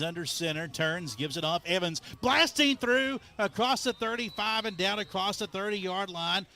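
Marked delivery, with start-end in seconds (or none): 1.6-6.4 rising, excited play-by-play call. Real, not acted. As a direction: call the big run with rising energy. Live play-by-play big run.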